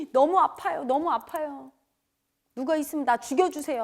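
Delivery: re-enacted pained wail, only partly let out; imitated anguished cry. Retelling crying out alone on the mountain, imitated anguished plea. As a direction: plead in pain, mildly acted. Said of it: "막 소리 지르면서 다녔어".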